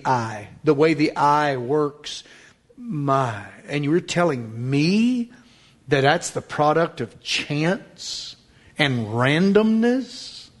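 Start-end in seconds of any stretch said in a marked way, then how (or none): 5.9-10.5 incredulous. Acted. Incredulous question to listener.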